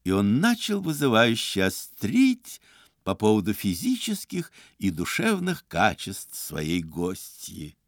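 ordinary delivery

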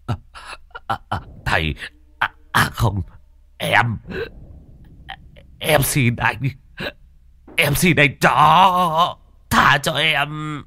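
stammering plea rising to a high, slow wail; terrified begging. Acted. Cowering master begs the dog ghost for mercy, high and drawn out. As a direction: grovel and plead, stretching the words.

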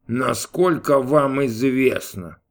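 slow, scornful repeat; scornful snort. A narrator's reading. God mocks Gabriel's words with scorn. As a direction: drag it out with contempt. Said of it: "презрительно фыркнул Бог".

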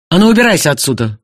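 loud angry growl; husband growling at the rival to leave; growled order. Acted. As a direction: throw him out with a snarl. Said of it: "прорычал Артур".

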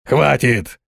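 ordinary delivery, nothing marked

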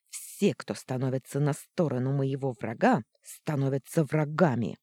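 злобно перебей, громче; напористо вклинься; перебивая. Acted. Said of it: "Перебила она меня". (злобно, перебивая)

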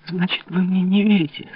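high, pained plea to the king; wounded disbelief. A narrator's reading. Louise, stung the king doubts her, pained. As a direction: voice rising in hurt disbelief.

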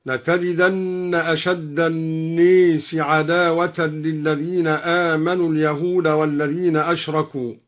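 الناس with its long a tilted toward e; imala on الناس. Shown as a demonstration. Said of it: "كلمة الناس هكذا".

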